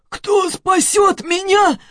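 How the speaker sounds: high, slow, strained rasping cry; hoarse cry. Acted. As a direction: croak it out with failing strength. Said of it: "прохрипел Антон". (хриплый отчаянный крик)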